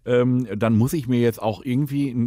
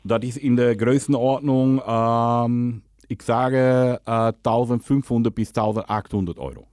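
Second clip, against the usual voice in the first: put-on Dutch accent, lisping. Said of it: "rede, lispeln und Holländisch".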